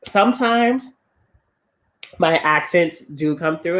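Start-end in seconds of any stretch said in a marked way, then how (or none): 2.4-3.0 "accents" with an audible plural S; final S sounded. Real, not acted. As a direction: end "accents" on a clear s sound. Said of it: "I said accents with an S".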